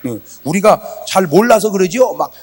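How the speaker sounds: ordinary talk, nothing marked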